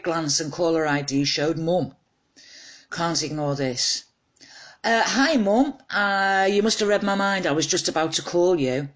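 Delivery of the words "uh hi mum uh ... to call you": high, eager and a bit caught out, talking to mum; flustered on the phone. Acted. A daughter on the phone to her mum, high and flustered. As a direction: sound bright and flustered, as if caught slacking.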